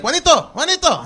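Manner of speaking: high, sing-song name call; calling a pet. Retold or imitated. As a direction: call the rooster over in a high voice. Imitates owner calling the rooster.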